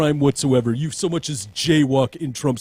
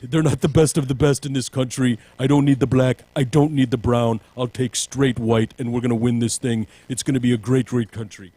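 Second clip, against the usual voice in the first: mock Trump. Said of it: "maybe he's just saying".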